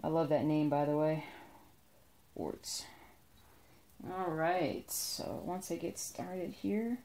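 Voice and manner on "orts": soft whisper, savoring the word. Real, not acted. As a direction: breathe the word out fondly. Savoring a name she loves.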